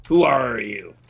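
silly voice. Retold or imitated. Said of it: "Is that how they talk?".

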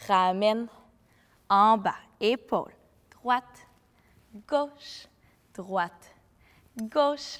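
slow, spaced-out movement cues; measured dance teacher's counting. Shown as a demonstration. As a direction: call each move in time, stretching the words. Counts out the dance moves slowly.

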